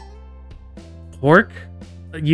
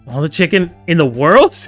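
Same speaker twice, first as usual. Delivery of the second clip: incredulous question; 3 semitones higher, 5 dB louder than usual. Acted. Voiced kids squabbling over chicken.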